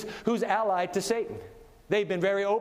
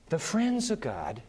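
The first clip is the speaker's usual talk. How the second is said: ordinary talk, nothing marked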